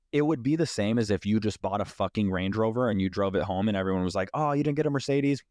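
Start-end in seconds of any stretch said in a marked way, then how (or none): 4.3-5.4 higher-pitched, let-down onlooker; mock disappointment. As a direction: imitate someone underwhelmed by your big news. Mimicking unimpressed onlookers at new car.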